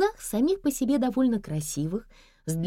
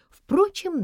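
plain reading voice

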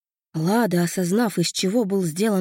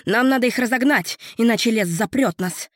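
urgent shout; 4 semitones higher than usual. Acted. Urgent call amid attack.

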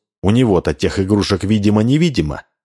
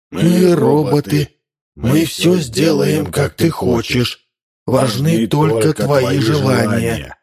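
slow, high mechanical chant; robot parents droning together; robots in chorus; 6 semitones higher, slower than usual. A narrator's reading. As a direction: recite it like a machine. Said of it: "сказали хором роботы".

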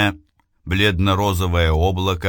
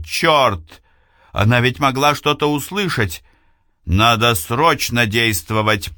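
urgent alarm; 3 semitones higher than usual. Acted. Эйвилна в тревоге.

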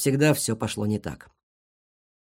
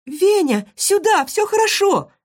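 very high squeaky call; squeaked; 5 dB louder, slower than usual. Acted. Marysya squeaks back to Venya, very high. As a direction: squeak it out like a tiny animal. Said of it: "пискнула Марыся".

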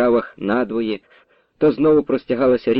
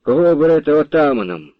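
plain reading voice

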